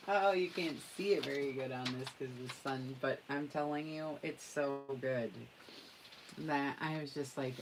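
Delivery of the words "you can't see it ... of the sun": usual speaking voice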